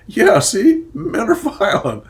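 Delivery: loud, high sneering "see"; mock knowing agreement. Everyone nodding about men, loud mocking agreement. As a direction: ham up the crowd's smug certainty. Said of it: "everyone nods and says".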